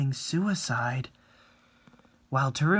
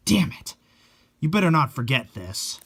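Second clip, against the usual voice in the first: parting threat; 3 semitones higher, 3 dB louder than usual. Acted. Fan retreats with a threat.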